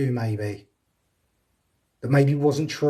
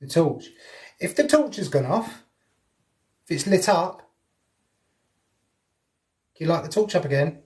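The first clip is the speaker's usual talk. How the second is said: attempted Welsh accent; 3 semitones higher than usual. Shown as a demonstration. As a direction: have a go at a bad Welsh accent. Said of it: "my Welsh don't even sound Welsh".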